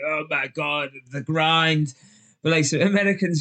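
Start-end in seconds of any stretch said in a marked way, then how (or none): 0.1-1.9 a light, put-on groan about work; half-hearted office complaint; mock moan. Coworkers moaning about the daily grind, lightly mocking. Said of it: "We moan at".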